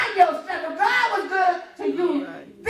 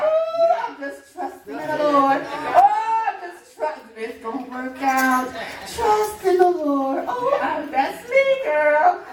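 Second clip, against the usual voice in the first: mock pious churchgoer; slower than usual. Preacher mocking a church member's breezy show of faith. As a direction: ham up the carefree believer while home is chaos. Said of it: "Coming here".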